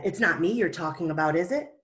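fast, anxious denial; upset disciples blurting out a denial. Acted. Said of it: "This upset the disciples".

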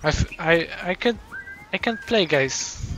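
hushed, overwhelmed murmur; quiet disbelief, close to tears; stunned and quiet. Real, not acted. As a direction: speak softly, barely able to process it. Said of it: "I'm so in shock".

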